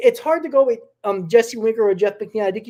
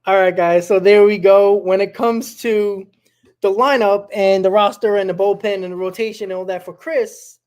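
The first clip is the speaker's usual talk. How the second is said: much louder, energetic host kickoff; loud show opener; 7 dB louder than usual. Real, not acted. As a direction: grab the audience, big and loud. Host takes over the show loudly.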